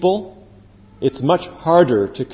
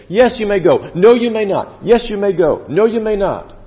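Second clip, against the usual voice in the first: higher, emphatic royal flip-flop; wavering king; 5 semitones higher than usual. Acted. King answering Moses time and again, mock exasperated decree. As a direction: swing between permission and refusal in matched bursts.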